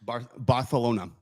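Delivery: "Barcelona" with a th in place of c; Castilian lisp. Shown as a demonstration. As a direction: try out "Barcelona" as Bar-the-lona. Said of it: "lisp on it".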